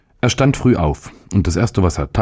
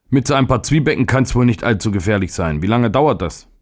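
put-on higher-pitched, carefree boy; lightly protesting schoolboy, pitched up; little boy; 6 semitones higher than usual. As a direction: play the boy brushing off a worry. Narrator voices the boy.

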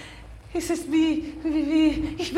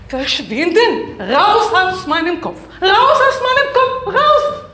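half-laughing shout; 4 semitones higher, 4 dB louder than usual. Acted. Fighting the spirit in her head.

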